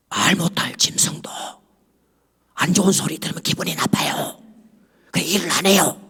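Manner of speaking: 농부가 귓속말로 속삭임; 선비 귀에 대고 숨죽여 속삭이기; whisper. Retold or imitated. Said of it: "귀에다 대고 소곤소곤 하는 겁니다". (짐승이 들을까 속삭이는 농부)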